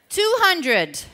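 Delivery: loud and high, rallying the crowd; shouted count. Real, not acted. Speaker hyping the audience, shouting the count. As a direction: call out the number to pump them up.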